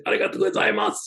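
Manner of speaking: joking formal reply. Retold or imitated. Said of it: "He'd say".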